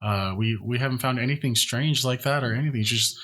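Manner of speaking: lightly voiced nervous young man; nervous servant voice.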